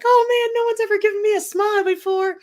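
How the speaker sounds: high, loud quote of a touched stranger; amazed gang member. Retold or imitated.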